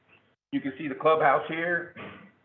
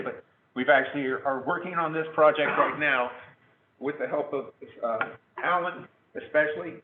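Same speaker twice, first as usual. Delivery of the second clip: losing voice. Real, not acted. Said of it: "I'm losing my voice here".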